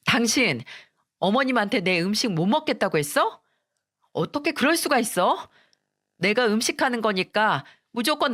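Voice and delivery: retold angry outburst, pitch jumping up on the question; a daughter-in-law lightly voiced, confronting her husband in anger; angry wife. Daughter-in-law rounds on her husband over the food, mildly angry. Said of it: "아들놈에게 화를 내더라고요".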